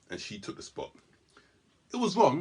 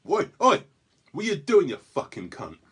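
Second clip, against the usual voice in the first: bellowing abuse out of a car window, much louder and higher; angry shout; 8 semitones higher, 9 dB louder than usual. Retold or imitated. Angry driver yelling at girlfriend, loud furious shout. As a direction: yell it like a furious stranger. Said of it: "he goes".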